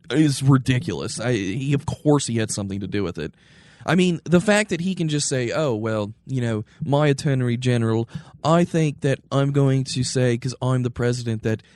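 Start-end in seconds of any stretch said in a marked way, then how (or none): 5.6-11.6 lightly put-on snooty British accent; a hint of mock-British snootiness. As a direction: play the president as mildly snooty British. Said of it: "he had to have a British accent".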